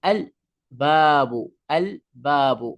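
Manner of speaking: "আল" with the l fully sounded before "বাবু"; teacher's demo of "আল বাবু", l clearly pronounced; clear alif lam. Shown as a demonstration. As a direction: say "আল বাবু" carefully, keeping the l audible. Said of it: "সুন্দরভাবে উচ্চারণটা হলো আলিফ লাম".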